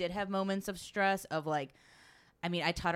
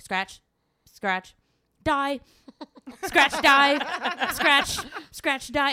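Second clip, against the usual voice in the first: rising, laughing calls of scratch and die, louder and higher; laughing shouted warnings; 8 semitones higher, 10 dB louder, much slower than usual. Retold or imitated. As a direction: bark out road warnings, cracking up. Calling out warnings while driving mountain.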